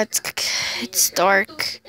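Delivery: hushed unvoiced whisper; soft breathy aside. Real, not acted. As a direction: whisper it in the dark. Dark room, whispering.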